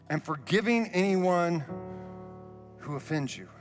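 ordinary talk, nothing marked

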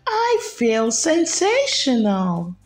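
a flamingo delighted with herself; cheerful flamingo Floss. Acted. Floss proud with new net.

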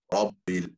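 Rabbil with a tapped Arabic R. Shown as a demonstration. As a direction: tap the R of Rabbil on the tongue tip. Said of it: "Instead of an English R".

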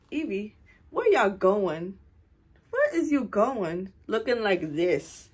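slow, drawn-out sassy questioning; mock questioning. Viewers asking Evie about her outfit, slow mock questioning. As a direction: stretch it out as playful viewers quizzing her.

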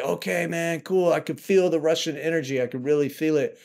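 lightly hammed-up rock star voice; mocking a rock frontman. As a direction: send up a cool frontman soaking in the crowd. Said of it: "And he's like".

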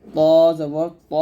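thick, rounded "ত" in "জবর ত"; heavy letter. Shown as a demonstration. Teacher showing learners the letter, "ত" said heavy. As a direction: say "ত" heavy, tongue tip behind upper teeth. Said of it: "বলতে হবে মোটা করে".

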